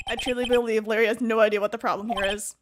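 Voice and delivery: a hint of haughty courtroom disdain; dismissive prosecutor. Plays prosecutor addressing judge.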